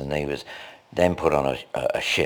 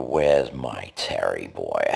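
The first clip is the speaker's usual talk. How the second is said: lightly attempted Californian accent, low and slow; 6 semitones lower, slower than usual. Imitating a singer asking after his Terry boy, slow Californian accent. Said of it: "in that kind of ... Californian accent".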